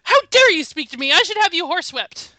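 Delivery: evil queen. Acted. Quoting Lady Susan's threats.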